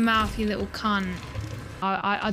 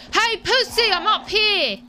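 taunting; 11 semitones higher, 4 dB louder than usual. Real, not acted. Taunting enemy in game.

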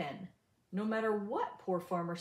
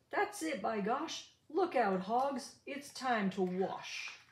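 yell; 2 semitones higher, slower than usual. Acted. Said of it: "Farmer yelled".

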